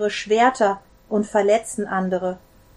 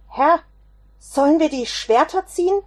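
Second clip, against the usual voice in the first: louder and higher, calling out to his master; shouted question; 7 semitones higher, 5 dB louder than usual. Acted. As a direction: shout it across the garden in alarm. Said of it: "schrie Petrus". (laut gerufene Frage)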